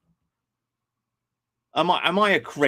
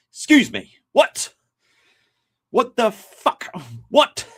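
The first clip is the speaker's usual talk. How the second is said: incredulous; 5 semitones higher, slower than usual. Retold or imitated. Streamer recalling hearing Morgoth, rising outraged disbelief. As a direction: sputter in mock shock. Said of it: "and I'm like".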